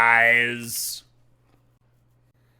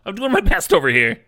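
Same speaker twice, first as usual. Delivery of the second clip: mock whiny protest; 10 semitones higher, 10 dB louder than usual. Defending himself jokingly.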